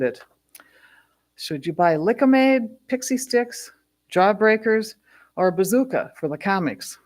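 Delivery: measured recital, each phrase starting strong then settling; poetry reading. Acted. Poet reads a childhood five-and-dime poem to an audience, measured recital. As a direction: read it as verse, lingering on the images.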